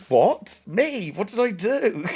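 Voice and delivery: high, loud, wounded protest; mock-hurt high voice; hurt friend. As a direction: play the offended friend. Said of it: "He's like".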